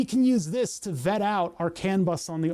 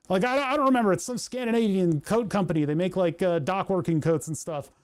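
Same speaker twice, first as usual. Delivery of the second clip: flustered. Retold or imitated. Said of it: "it was too abrupt. I was like".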